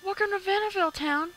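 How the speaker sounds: put-on high, bright girl voice for the neighbor. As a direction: pitch up into a girl's voice. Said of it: "It's so hard to do a girl voice".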